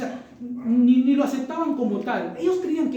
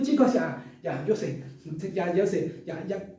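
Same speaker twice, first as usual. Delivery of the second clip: sarcastic; 2 semitones lower, slower than usual. Retold or imitated. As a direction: brush them off with heavy irony. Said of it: "Pablo está hablando sarcásticamente".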